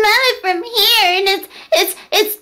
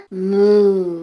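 swan noise; 14 semitones lower than usual. Pretend. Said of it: "Make a swan noise".

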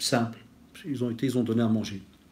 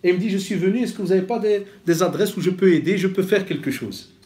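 high retold voice, raised throughout; proud, eager account; 5 semitones higher, 3 dB louder than usual. The man proudly telling the preacher about his new life, high and eager.

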